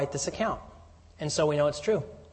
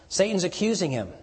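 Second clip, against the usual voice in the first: usual speaking voice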